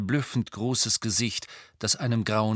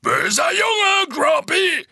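slow, high, loud yell; yelled scolding; 8 dB louder, slower than usual. A narrator's reading. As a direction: yell at him like a naughty child. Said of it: "hörten sie Hagrid schreien". (lautes, gedehntes Schreien)

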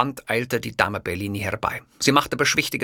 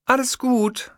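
soothing; slower than usual. Acted.

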